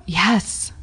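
hiccuping yes; a hiccup on the word. Real, not acted. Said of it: "was that a hiccup".

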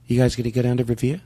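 "Revere" said Boston-style; Boston accent. Shown as a demonstration. Student echoing in a Boston accent. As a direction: echo the coach's Boston line. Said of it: "practice our Boston accent".

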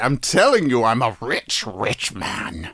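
lightly put-on rich man; rich person voice. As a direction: play a self-satisfied rich man, fading off at the end. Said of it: "back to my poor person voice".

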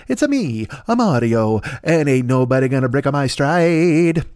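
a hint of Mario, pitch jumping up on it's a me; lightly hammed-up Mario accent. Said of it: "in the parlance of Mario".

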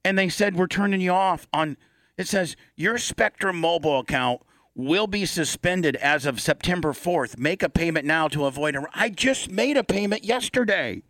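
high, indignant rant about the bill; exasperated complaint. Real, not acted. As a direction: sound fed up and wronged. Complaining about a suspension text.

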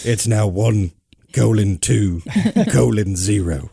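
slow, laughing through the correction. Real, not acted. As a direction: chuckle as you spell it out. Laughing at his typo.

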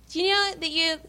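a touch of a prissy host; put-on voice. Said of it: "why I'm making that, that voice".

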